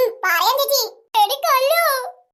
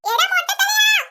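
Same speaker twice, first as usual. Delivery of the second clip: cheeky call; 4 semitones higher, 4 dB louder, slower than usual. Acted. Girl calling out to the shopkeeper.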